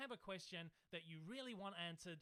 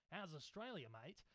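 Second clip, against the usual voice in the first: put-on Australian accent; 2 semitones lower than usual. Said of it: "I'm trying to be Australian".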